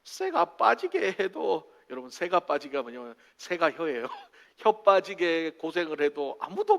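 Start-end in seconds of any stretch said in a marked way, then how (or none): 0.0-1.7 drawn-out Gyeongsang phrase; a touch of Gyeongsang flavour; Gyeongsang dialect. Shown as a demonstration. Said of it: "경상도 말로".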